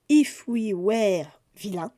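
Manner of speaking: slow English title in a French accent; careful, drawn-out French-accented English. Real, not acted. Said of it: "Mon bel accent anglais".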